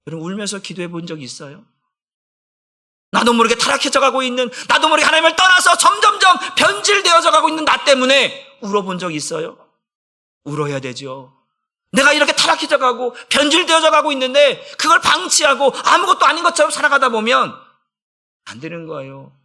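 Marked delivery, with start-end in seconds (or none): 3.1-8.6 urgent, rising preacher's cry; impassioned preaching. Real, not acted. Preacher at full force. 11.9-17.6 high, forceful pulpit delivery; impassioned preaching. Real, not acted.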